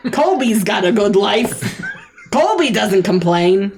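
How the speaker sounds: fed-up snake husband snapping back, ending in a jeer; grumpy husband. Acted. Snake husband retorts to his nagging wife, fed up. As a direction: grumble back then go for the jab.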